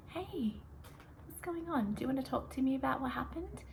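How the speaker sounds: crouch down and ask kindly; calm, gentle check-in. Shown as a demonstration. Teacher calmly asking an upset student what happened. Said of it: "I'll just talk really calmly".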